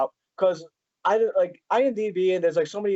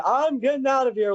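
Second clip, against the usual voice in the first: half-hearted panicked-bystander yell; mock scream; 6 semitones higher than usual. Fan quoting a cartoon bystander to the actor, mild mock scream. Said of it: "there was a guy screaming".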